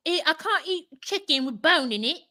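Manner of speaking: lightly voiced fussy eater; a hint of a spoiled whine; mock picky whine. Friend mimicking the girlfriend, light fussy whine. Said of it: "She's like".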